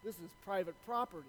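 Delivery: lightly voiced old farmer, hushed; quiet, understated farmer's warning. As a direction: lay down the law softly as an old farmer. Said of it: "this old farmer, he says".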